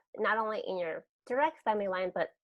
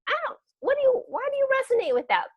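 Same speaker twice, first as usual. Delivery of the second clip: put-on high, timid good girl voice; small, doubtful people pleaser; people pleasing voice; 4 semitones higher, 4 dB louder, faster than usual. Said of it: "the good girl voice was like".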